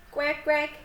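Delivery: playful duck imitation; duck quacking.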